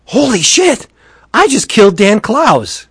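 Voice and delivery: high-pitched horrified realisation; acted-out stunned panic; shocked exclamation. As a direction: exclaim it like you just did something awful. Acting out driver's horrified realisation.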